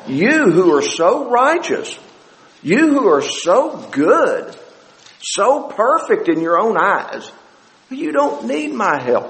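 slow, pointed mock praise; Jesus, mildly sarcastic. Jesus answering the scribes and Pharisees, mildly sarcastic. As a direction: needle the self-righteous with a touch of sarcasm. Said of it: "a little bit of that in Jesus' voice".

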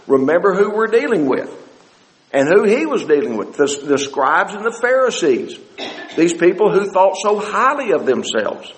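ordinary talk, nothing marked

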